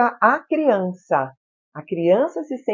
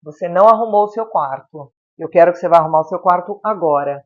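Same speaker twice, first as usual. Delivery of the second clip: firm, louder motherly order, no yelling; commanding parent; 5 dB louder than usual. Shown as a demonstration. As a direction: show who is in charge without shouting. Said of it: "É uma entonação de voz que você tá mostrando que você é quem comanda ali".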